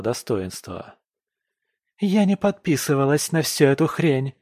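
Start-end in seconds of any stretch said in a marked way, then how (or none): 2.0-4.3 higher, loud indignant shout; wife shouting at her husband; angry outburst. Acted. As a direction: hurl it at him.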